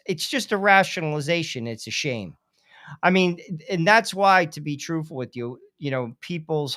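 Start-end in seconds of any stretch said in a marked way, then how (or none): 1.7-2.3 whispered aside. Real, not acted. Rueful aside on abortion.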